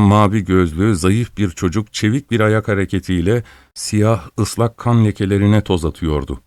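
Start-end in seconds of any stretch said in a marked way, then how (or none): none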